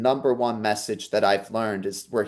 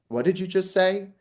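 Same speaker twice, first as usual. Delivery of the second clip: high, startled question; stunned disbelief; 8 semitones higher than usual. Retold or imitated. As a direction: retell the shock of hearing grandma's words. Stunned by grandmother's words.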